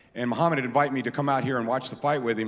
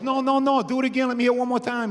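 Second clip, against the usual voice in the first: much higher, louder quoted insistence; Mike's voice; 10 semitones higher, 5 dB louder than usual. Retold or imitated. Mike Tyson insisting, much higher and louder. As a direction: demand it again, pushy and high. Mike demanding the impression again.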